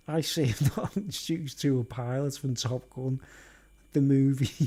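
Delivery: laughing. Real, not acted. Laughing at a joke.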